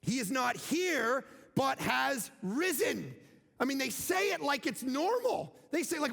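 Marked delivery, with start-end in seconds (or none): 0.0-3.1 proclaiming. Acted. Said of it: "proclaiming the resurrection".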